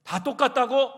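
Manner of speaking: loud, high indignant outburst; shouted scolding. Retold or imitated. Pastor wanting to rebuke diners he overheard, shouted scolding. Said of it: "막 큰 소리로 막 야단을 치고".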